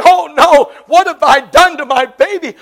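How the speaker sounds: preacher's dramatized moan of guilt; mock moaning lament. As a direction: cry out in staged grief. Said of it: "began to weep and, and to moan".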